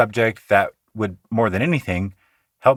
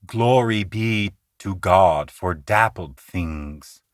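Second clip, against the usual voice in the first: slow, vowels drawn long and sung; "Glory be to God for dappled things" slow, stressed vowels lengthened; long melodic stress; 3 semitones lower, slower than usual. Shown as a demonstration. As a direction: stretch the stressed sounds melodically. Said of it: "Hopkins does this a lot".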